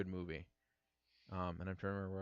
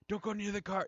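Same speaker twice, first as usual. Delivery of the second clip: high, louder mock-panicked warning; retold freak-out; 13 semitones higher, 6 dB louder than usual. Traumatized handler reacts to car alarm, imitated panic. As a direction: imitate an alarmed cry, pitched way up. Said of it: "just, like, freak out".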